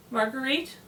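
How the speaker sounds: tentative call, rising on "Marguerite"; "Marguerite" with an upward, searching lilt; questioning call. A narrator's reading. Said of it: "the woman called".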